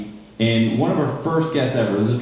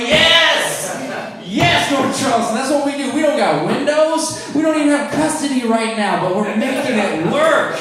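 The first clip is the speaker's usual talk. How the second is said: excited cheer; 10 semitones higher than usual. Retold or imitated. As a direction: cheer on the hometown like a fan. Cheering his city, excited.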